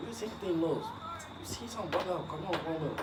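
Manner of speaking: high, hushed call down the hall; hushed urgent call. Retold or imitated. Retelling the dad calling him in the night, hushed and high. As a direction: call out softly so nobody wakes.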